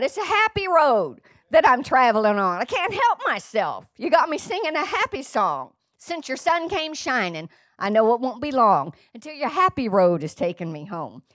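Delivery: lively spoken recital of a chorus; spoken song lyrics. Real, not acted. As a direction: recite the happy lyrics with preacherly zest. Recites the sung chorus in speech.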